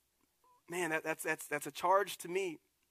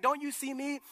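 indignant Paul; 5 semitones higher, 7 dB louder than usual. Retold or imitated. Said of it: "He's like".

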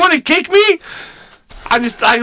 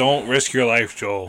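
soft mock warning; 8 semitones lower, 8 dB quieter, slower than usual. Imitating partner's caring warning.

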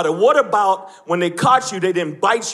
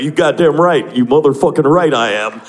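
lower, louder mock tough guy; tough white guy; 7 semitones lower, 4 dB louder than usual. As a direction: puff up like a brave heckler. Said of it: "I see he's like".

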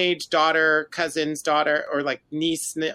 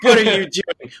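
mock dramatic line, louder and higher; one word at a time; 5 semitones higher, 8 dB louder than usual. Podcaster mimicking the aunt's confrontation, one word at a time. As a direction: push out each word separately. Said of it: "like, one word at a time".

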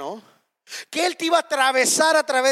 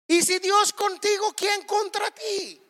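preaching shout; 8 semitones higher than usual. Real, not acted. Preacher climaxes the key verse.

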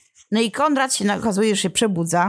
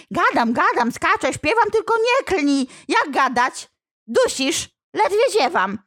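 high, frantic demon voice; a devil begging to be spared; squealing demon; 8 semitones higher than usual. Acted. Demon choking under the priest's prayer, high frantic whine.

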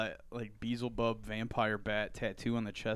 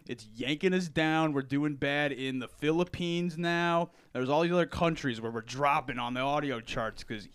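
Randy Savage wrestling promo; 4 semitones higher, 7 dB louder than usual. Acted. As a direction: cut a loud promo like Macho Man. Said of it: "sound like Randy Savage".

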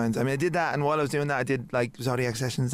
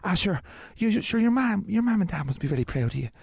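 real Irish man; 4 semitones higher than usual. Retold or imitated. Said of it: "like, real Irish man".

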